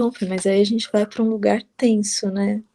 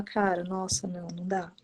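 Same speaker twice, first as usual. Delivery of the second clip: much softer, half-whispered giving up; hushed dismay; 4 semitones lower, 11 dB quieter than usual. Retold or imitated. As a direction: voice a hushed, imitated reaction of dismay. Acted quote of giving up. (desalento imitado, quase sussurrado)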